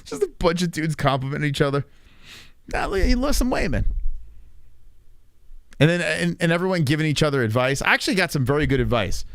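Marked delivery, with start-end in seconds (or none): 2.7-3.9 high, chummy bro voice; gym bro compliment. Retold or imitated. Gym guy telling a friend he lost weight, mock bro voice. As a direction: gush over a buddy's weight loss.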